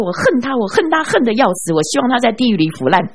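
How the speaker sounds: retold scream. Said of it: "他就大声尖叫说".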